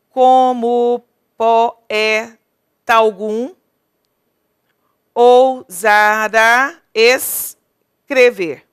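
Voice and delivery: slow, loud, drawn-out scansion; teacher scanning the second verse slowly and loudly; scanning syllables. Shown as a demonstration. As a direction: stretch every syllable so the class can count. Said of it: "Um, dois, três".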